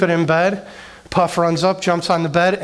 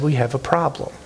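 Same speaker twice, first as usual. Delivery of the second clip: calm, serious, slightly lower voice; calm but serious; 3 semitones lower than usual. Retold or imitated. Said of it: "she calmly but seriously said".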